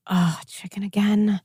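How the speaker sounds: imitating a sulky kid, whispered; son's whispered complaint. Son at the dinner table, complaining in a whisper. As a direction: breathe it out like a disappointed child. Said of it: "he's like".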